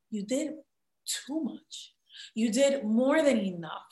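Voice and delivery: soft, halting words with gaps; tender retold reassurance. Daughter answering her crying mother, softly reassuring. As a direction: gently reassure a tearful mother, quietly.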